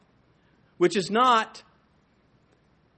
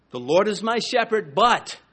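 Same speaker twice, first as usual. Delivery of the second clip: grudging but; 4 semitones higher, 5 dB louder than usual. Shown as a demonstration. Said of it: "instead of".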